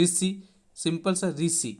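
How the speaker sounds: ऋषि said slowly as "रीसी", with s for sh. Shown as a demonstration. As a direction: say ऋषि simply, ri-si, drawn out. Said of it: "इसका इसी तरह से उच्चारण होता है".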